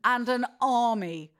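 rally an army in mock defiance; mock-solemn warning. Host warns the cancellers on behalf of middle-aged women, mock threat.

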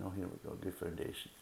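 "good foundation" said quietly as a private thought; quiet inner voice. Retold or imitated. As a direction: think it to yourself, hushed. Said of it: "You're thinking".

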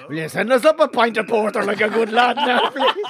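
laughing through a cheeky order, rising high; laughing request. Retold or imitated. Hungover guest phoning room service, laughing. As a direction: chuckle as you ask nicely. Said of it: "phone down to room service and go".

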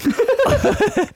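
high burst of laughter; real high giggle. Real, not acted. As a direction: crack up, pitched high. Laughing at fillet argument.

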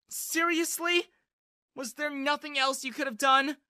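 angry yell. A narrator's reading. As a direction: yell it at him, fed up. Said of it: "she yelled".

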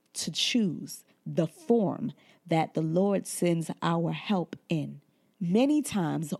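unhurried pulpit delivery; preaching. Acted. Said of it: "Now, I don't wanna preach".

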